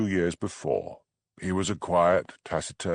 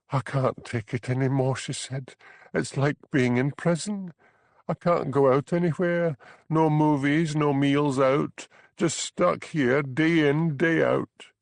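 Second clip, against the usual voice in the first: higher, light voice for Bella, desperate; young Highland wife, higher pitched, fed up; 8 semitones higher than usual. Acted. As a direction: play the trapped young wife pleading. Bella's lines in dialogue.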